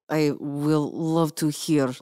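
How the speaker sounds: coyly eager to hear of battle; slow murmured politeness; sweet lady. Acted. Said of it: "Alice says".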